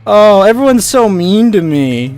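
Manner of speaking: mock whine. Mocking people who play victim, whiny. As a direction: pout it out like a sulking victim. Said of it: "It's just like".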